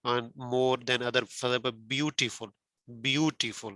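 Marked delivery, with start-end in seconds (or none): 1.7-3.7 "beautiful" stressed on BEAU; stress on first syllable. Shown as a demonstration. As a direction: lean on the opening syllable of "beautiful". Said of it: "we give stress on one syllable".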